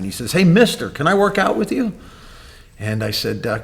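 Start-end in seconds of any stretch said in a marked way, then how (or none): 0.3-1.9 raised, high call, mildly yelled in retelling; retold yell. Boy calls to a man working out in his garage, retold yell. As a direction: imitate a boy calling out, higher pitched. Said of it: "he yells at me".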